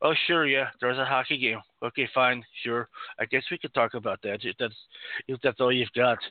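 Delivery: terrible put-on French-Canadian accent, bored and unimpressed. On a show, imitating a man at his post-game conference, in a bad, put-on bored French-Canadian accent. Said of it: "the worst French-Canadian accent you've ever heard".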